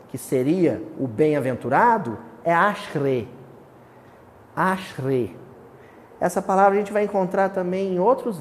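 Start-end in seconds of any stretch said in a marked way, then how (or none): 2.4-5.4 "ashre" said as AH-shreh, stress on the first syllable; Hebrew word ashre. Shown as a demonstration. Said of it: "a palavrinha em hebraico para bem-aventurança". ("ashre" pronunciado como palavra hebraica, AH-shre)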